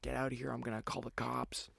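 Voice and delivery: retold screaming. Bodega man losing his mind at me, high mock scream. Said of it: "He's, like, screaming".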